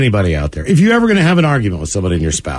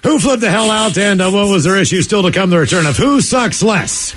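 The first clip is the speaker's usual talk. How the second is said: radio show tease; 3 semitones higher than usual. Acted. Host teasing what is still to come, announcer delivery. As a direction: sell the upcoming segment like a radio host.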